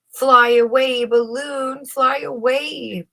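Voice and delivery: high loud desperate call, slowing on the last fly away; crying out. A narrator's reading. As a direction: call out to the balloon with all you've got. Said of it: "Pascal cried".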